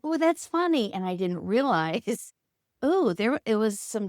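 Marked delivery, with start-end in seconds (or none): 0.0-0.9 high, loud delighted "ooh"; amused audience. Retold or imitated. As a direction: play the tickled crowd. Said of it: "make people go".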